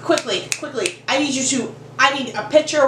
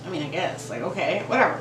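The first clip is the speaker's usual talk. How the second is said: hesitant mumble; 7 semitones lower, 7 dB quieter than usual. Retold or imitated. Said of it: "and I'm like".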